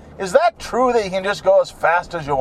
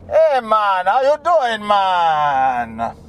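put-on Jamaican accent; 2 semitones higher, slower than usual. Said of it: "Everything comes out like Jamaican".

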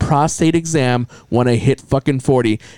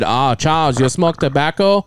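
Chinese doctor. Retold or imitated. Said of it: "my Chinese".

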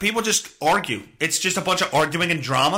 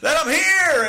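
mock dramatic shout; 10 semitones higher, 4 dB louder, slower than usual. Hammed-up intro bit.

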